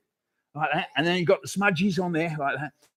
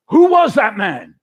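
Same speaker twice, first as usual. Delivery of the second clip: wondering; 3 semitones higher, 7 dB louder than usual. Acted. Bystander asks in the show.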